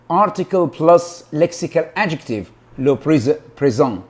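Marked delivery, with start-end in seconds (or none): 2.8-4.0 hesitant French with an English accent; foreign accent in French. Shown as a demonstration. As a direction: stumble through the French word. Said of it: "my French is not, pronunciation-wise, it's not very good".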